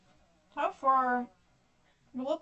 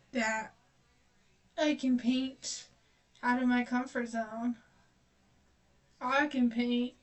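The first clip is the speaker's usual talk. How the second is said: hammed-up louder self-mockery, smug; mocking her own boast; 2 semitones higher, 3 dB louder than usual. Painter mocking her earlier belief she could paint anything, sarcastic and louder. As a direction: parrot your earlier confident self with sarcasm. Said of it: "It's like".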